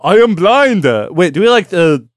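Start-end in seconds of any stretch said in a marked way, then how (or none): 0.0-0.9 higher, mock slurred cry; hammed-up cry with muffled diction; a deaf take on a late rock singer. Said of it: "deaf Jim Morrison or the Japanese one?".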